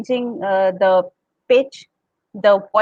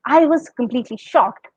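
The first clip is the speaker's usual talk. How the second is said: shocked. Shown as a demonstration. Teacher demonstrating a shocked line to students. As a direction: show the shock in your voice. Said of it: "express that shock with your voice".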